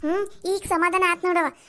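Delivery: high, loud mocking parrot of his words; mocking echo. Daughter-in-law mocking father-in-law's words, high and loud. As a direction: throw his own words back at him to mock him.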